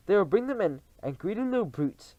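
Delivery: high, gleeful cries; eager cry. Acted. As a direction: relish it greedily. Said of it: "cried the audience".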